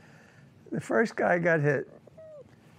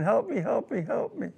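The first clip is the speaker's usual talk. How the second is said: retold crying plea; 4 semitones higher than usual. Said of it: "he was crying".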